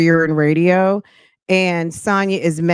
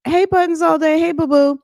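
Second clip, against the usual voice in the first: much higher, lightly voiced sweet call; mock flirty greeting; 11 semitones higher than usual. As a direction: mimic a cooing side chick.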